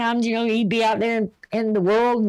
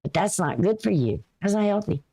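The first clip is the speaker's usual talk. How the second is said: understated, caring caution without pushing; gentle little voice. Retold or imitated. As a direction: mildly voice a caring reminder, then let it go. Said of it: "here is that little voice that says".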